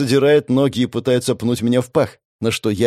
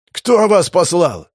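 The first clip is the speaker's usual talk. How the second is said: high, slow, insistent question; interrogating demand; 6 semitones higher, 3 dB louder, slower than usual. Acted. Attacker questioning captive about who sent him, demanding. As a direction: press hard on each word.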